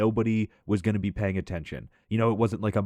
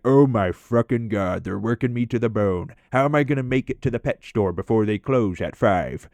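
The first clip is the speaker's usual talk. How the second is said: imitating Mike. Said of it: "he'd be like".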